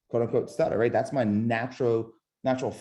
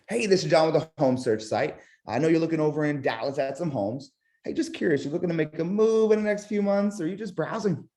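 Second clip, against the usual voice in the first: light, lifted, curious questioning; 5 semitones higher than usual. Shown as a demonstration. Agent calling a home buyer, curious and unhurried. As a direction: sound genuinely curious, not selling. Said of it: "my tonality is curiosity".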